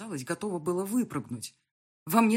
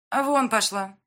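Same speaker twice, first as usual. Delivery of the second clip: rude dismissal; 5 semitones higher, 9 dB louder than usual. Acted. Blonde dismisses heroine.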